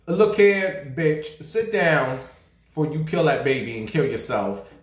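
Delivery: mock scold, then drag out "sit down". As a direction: tell her off firmly. Scolding a rapper directly.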